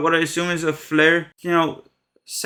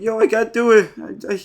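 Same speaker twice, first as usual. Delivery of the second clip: mock panic; 3 semitones higher than usual. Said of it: "Karen starts acting like".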